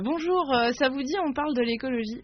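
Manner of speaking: high, bright-eyed teacher pitch, slightly overdone; mock cheerful pitch.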